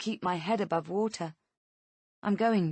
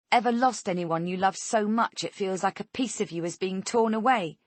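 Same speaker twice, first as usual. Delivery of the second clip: taunting; 3 semitones higher, 4 dB louder than usual. Acted. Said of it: "Angela taunts me".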